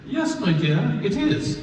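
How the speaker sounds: put-on high, haughty aristocratic old lady; Dowager Duchess voice. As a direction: play a grand dowager, lofty and high. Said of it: "sounds like the Dowager Duchess from Downton Abbey".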